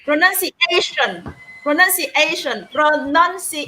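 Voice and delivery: "Pronunciation" carefully as pro-NUN-ciation; demonstrated pronunciation. Shown as a demonstration. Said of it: "the stress on the".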